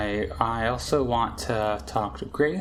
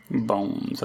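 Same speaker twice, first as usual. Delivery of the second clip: odd repeat; 3 semitones lower than usual. Acted. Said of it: "I don't know why I said it like that".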